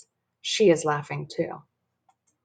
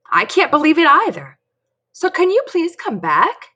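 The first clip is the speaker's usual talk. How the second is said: put-on high pleading child; 11 semitones higher, 5 dB louder than usual. Dory pleading on banana phone.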